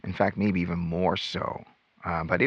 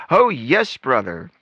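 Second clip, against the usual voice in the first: gushing witness; 4 semitones higher, 4 dB louder, slower than usual. Retold or imitated. Over-the-top witness answer.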